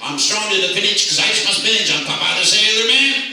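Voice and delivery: a full-volume Popeye chant; loud shout. Shown as a demonstration. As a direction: lead the room in a big shout. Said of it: "Let's see if we can get this together here".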